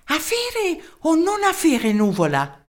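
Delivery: high, slow German-accented voice with a hint of annoyance; a tiny German professor losing patience; irked German accent. Professor irritated at the mayor, German-accented voice. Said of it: "disse indispettito il professore".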